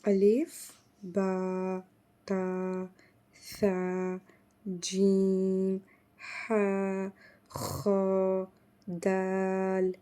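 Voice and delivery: slow, drawn-out Arabic letter names; teacher reciting the alphabet; letter recitation. Shown as a demonstration. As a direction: recite each letter name slowly for the class. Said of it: "एक दफ़ा repeat कर लेते हैं".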